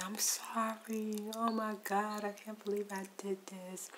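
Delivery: subdued retold wail, words stretched out; mock crying. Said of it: "she was out there screaming, hollering, crying".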